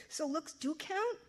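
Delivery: slow, insistent question; pressing. A narrator's reading. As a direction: push her for an answer. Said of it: "I pressed".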